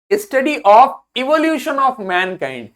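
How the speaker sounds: very slow, spaced-out definition; dictating word by word; slow dictation. Shown as a demonstration. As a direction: read it slowly for notes. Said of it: "slow dictation".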